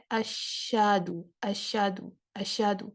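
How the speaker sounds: اشہدو with the ش bounced and the ہ lost; quick اشہدو swallowing the ہ; wrong reading. Shown as a demonstration. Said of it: "وہ بن رہا ہے". (غلط اشہدو، ش اچھالا ہوا)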